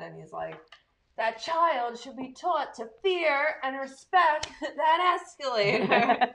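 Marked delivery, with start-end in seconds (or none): 1.2-6.3 higher, slow, drawn-out indignation; mock mad. Moviegoer quoting angry mall guy about escalator kid, hammed-up indignation. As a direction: overact the outrage, breaking into a laugh. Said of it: "like, all mad".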